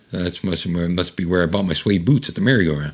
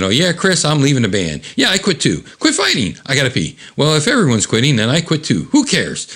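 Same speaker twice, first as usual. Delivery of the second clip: bickering complaints; 6 semitones higher than usual. Retold or imitated. We're still complaining.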